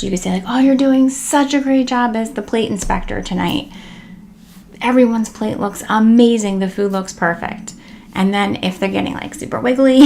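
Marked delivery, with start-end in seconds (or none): 0.5-7.7 enthusiastic praise. Shown as a demonstration. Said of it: "praise their efforts".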